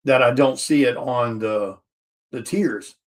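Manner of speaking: talking through hiccups; hiccuping between words. Real, not acted. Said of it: "I got the hiccups and the burpees".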